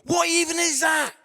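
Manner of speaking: high-pitched comic disbelief; incredulous rant. Acted. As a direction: rant as if the number is absurd. Comic rant about ten bridesmaids.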